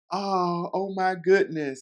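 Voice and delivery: high, loud gushing imitation of her; overwhelmed excitement. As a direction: gasp it out like she can't believe it. Voicing Kennedy at the proposal.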